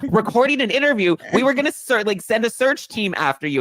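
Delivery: high, loud, incredulous retelling; mock disbelief. Co-host retelling her own shocked reply to Donna, high disbelief. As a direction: act shocked she was just busy.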